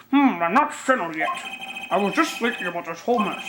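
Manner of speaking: lightly voiced old judge; a hint of a doddering judge; judge's voice. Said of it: "that's the judge's voice".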